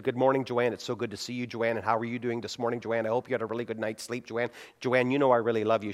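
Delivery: fast and soft, with "Joanne" tacked on after every phrase; a light parody of churchy prayer-speak aimed at a spouse; mock-pious to wife. Shown as a demonstration. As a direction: talk to your wife like a stilted prayer, name as punctuation. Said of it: "If I spoke to my wife like that".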